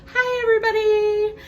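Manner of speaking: very high, sing-song feminine greeting; exaggerated high-pitched chirpy hello; customer service voice. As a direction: put on a sugary, palatable customer-service voice. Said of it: "I was always putting on a voice".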